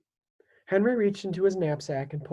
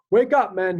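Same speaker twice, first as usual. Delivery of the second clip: loud commanding call; captain's loud wake-up bellow; 3 semitones higher, 7 dB louder than usual. A narrator's reading. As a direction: rouse the sleeping camp. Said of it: "he bellowed".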